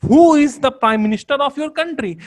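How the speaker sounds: slow example question. Shown as a demonstration. Teacher slowly reading an example question to students. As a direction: ask it deliberately to the class. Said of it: "यहाँ पे what क्या कर रहा है".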